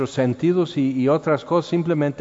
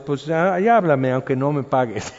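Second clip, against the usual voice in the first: mock angry. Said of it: "todo enojado".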